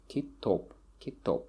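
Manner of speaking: kitop stressed on top; kitop, second syllable stressed; stress on last syllable. Shown as a demonstration. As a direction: lean on the o of kitop. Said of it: "falls on the last syllable".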